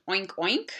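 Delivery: a little rising piggy oink; pig oink imitation. Shown as a demonstration. Teacher showing the German pig sound. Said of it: "das Schwein macht".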